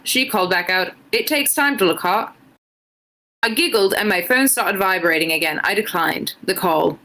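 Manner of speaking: put-on a shaky try at an Irish accent, drifting British; reading fan fiction aloud in a so-so Irish lilt; attempted Irish accent. Streamer reading fan fiction to chat, in a struggling Irish accent. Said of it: "Liz is trying her best to do an Irish accent".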